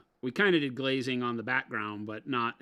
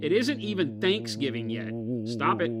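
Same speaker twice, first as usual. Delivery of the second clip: scolding; 4 dB louder than usual. Pretend. Mock scolding about Christmas early.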